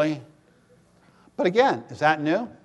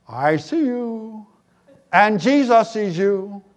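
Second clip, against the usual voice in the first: parrot voice; 3 semitones higher, slower than usual. Acted. Parrot repeats.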